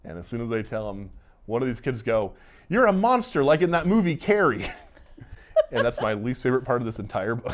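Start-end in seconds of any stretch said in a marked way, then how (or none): 2.7-4.7 much higher and louder, a shrill-ish bratty jeer; mocking kid accusation. Teenager accusing Johnny after the fire, mocking high jeer. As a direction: squeal it like a teenager calling someone a freak.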